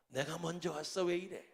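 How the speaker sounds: low, soft muttered thought; inner grumble. Retold or imitated. Pastor silently objecting to a car cutting in, muttered inner grumble. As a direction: grumble under your breath, as if only thinking it. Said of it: "속으로 이렇게 얘기했습니다".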